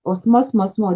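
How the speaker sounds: repeated quote. Retold or imitated. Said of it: "When they say".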